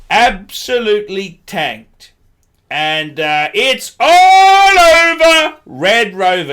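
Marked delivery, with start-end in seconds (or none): 3.5-6.5 gloating singsong. Real, not acted. Gloating that Omega collapsed.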